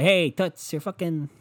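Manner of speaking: lightly voiced brash catcall; crude catcall. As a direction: holler it at her across the room. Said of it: "you wanna say".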